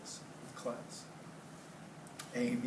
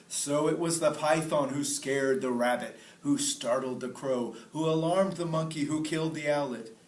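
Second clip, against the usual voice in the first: king's voice; 3 semitones higher, 6 dB louder than usual. Acted. King sums up to council.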